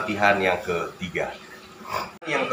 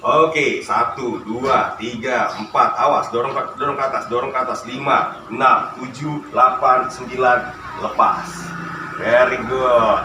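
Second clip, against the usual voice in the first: counting workout reps; 3 dB louder than usual. Real, not acted. Counting reps during exercise.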